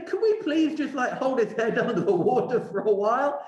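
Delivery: mock-polite plea. Mock-polite paraphrase of Dante's cruel wish.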